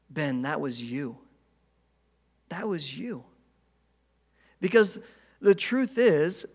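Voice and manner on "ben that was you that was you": soft, hushed divine rebuke; God's gentle voice. Retold or imitated. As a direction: say it softly, like God speaking to the heart. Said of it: "I felt God say this".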